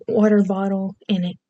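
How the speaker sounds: "Water bottle" in an accent with R and T pronounced; accented "Water bottle", each word fully sounded; stereotypical accent. Shown as a demonstration. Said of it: "some very stereotypical ones too".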